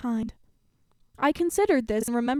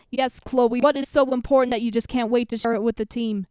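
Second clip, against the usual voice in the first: loud coach; 5 dB louder than usual. Acted. Coach answers loudly.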